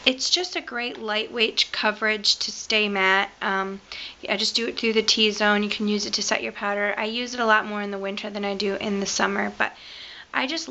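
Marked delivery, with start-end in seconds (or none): none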